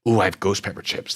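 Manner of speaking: normal talking voice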